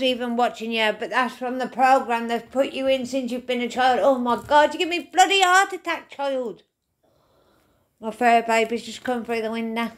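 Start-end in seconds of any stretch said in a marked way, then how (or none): 4.0-6.6 startled. Real, not acted. Cat startles her mid-reading.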